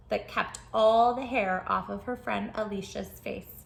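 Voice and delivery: lively storybook narration for little listeners; reading to children. Acted. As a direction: tell it like a bedtime picture book. Reads picture book aloud.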